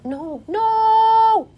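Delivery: loud, high wail of dismay. Real, not acted. Baker crying out as her cake fails, loud and high. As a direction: cry out as it goes wrong.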